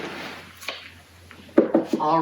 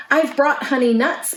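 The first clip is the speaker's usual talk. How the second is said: higher, pleased offer; grinning badger; 7 semitones higher than usual. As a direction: say it with a grin. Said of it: "Badger says with a grin".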